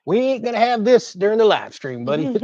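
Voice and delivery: half-playful scold aimed at the puppy; scolding the dog. Real, not acted. Streamer scolding his dog mid-stream, mock-stern and playful.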